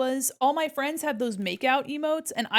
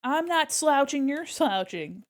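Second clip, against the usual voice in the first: loud, drawn-out indignant protest; indignant denial; 4 semitones higher, 3 dB louder, slower than usual. Acted. Streamer protesting the app calling her slouched, indignant. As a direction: push back hard on the accusation. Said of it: "Slouching all by yourself".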